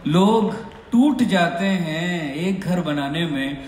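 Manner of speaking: measured Urdu couplet with lingering phrases; sher recitation. Shown as a demonstration. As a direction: recite the full couplet for applause. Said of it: "पहले शेर सुनाता हूँ".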